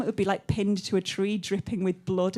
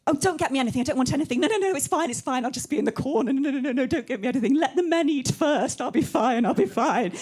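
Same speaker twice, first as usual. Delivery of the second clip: martyr mum; 4 semitones higher than usual. Retold or imitated. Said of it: "she's always like".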